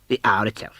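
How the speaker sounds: hushed but triumphant; whispered triumph at the hour. Acted. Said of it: "said Scrooge triumphantly".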